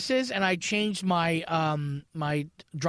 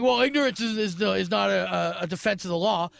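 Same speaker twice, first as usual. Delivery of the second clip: judge lecturing. Retold or imitated. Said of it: "reads me the riot act".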